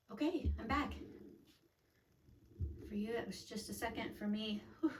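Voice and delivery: breathless after the stairs; panting a little between words; out of breath. Real, not acted. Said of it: "I'm a little out of breath".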